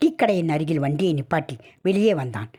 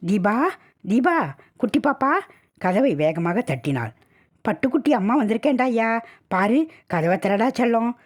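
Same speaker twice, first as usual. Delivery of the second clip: put-on higher, affectionate call to a child; happy calling; 5 semitones higher than usual. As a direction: call out happily for your darling. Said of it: "சந்தோஷமாக கூப்பிட்டாள்". (சந்தோஷமாக கூப்பிடுதல்)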